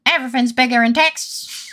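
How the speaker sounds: a light hint of a southern accent. Playing a character, boasting about Texas in a light southern accent. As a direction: toss it off in a mild southern accent. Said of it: "In that southern accent".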